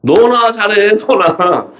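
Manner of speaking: high, drawn-out mock rebuke; Holy Spirit's retort. Holy Spirit answering those crying at dawn, high mock rebuke. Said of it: "성령이 뭐라 했어요?".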